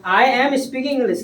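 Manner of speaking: slow, even model sentence for the class to repeat. Shown as a demonstration. Teacher slowly models the English sentence for a shy pupil. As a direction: spell it out slowly, word by word. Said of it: "बोलो बेटा".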